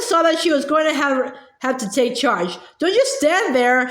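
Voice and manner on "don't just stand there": ordering. Acted. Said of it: "she ordered".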